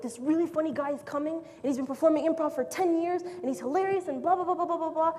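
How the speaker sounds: gushing about someone, trailing into blah-blah; mock awed chatter. Voicing intimidated improvisers hyping a rival.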